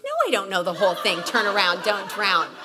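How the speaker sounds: answering the friend with laughing indignation; mock indignant. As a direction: throw the slogan back indignantly. Mocking friend's slogan back.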